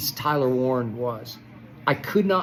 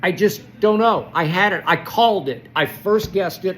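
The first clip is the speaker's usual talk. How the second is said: frustrated yelling; 4 semitones higher, 3 dB louder than usual. Real, not acted. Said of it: "the savage beast that I have become".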